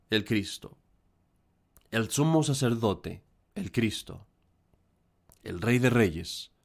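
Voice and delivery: measured homily delivery with deliberate pauses; solemn preaching. Real, not acted. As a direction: preach earnestly to the congregation, phrase by phrase.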